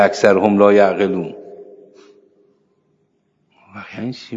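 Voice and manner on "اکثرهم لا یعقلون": forceful verse quote. Retold or imitated. Quoting Quran verse forcefully.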